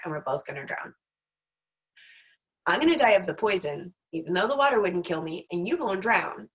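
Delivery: a hint of a worried frog laying it out. Frog warns scorpion, lightly voiced worried frog.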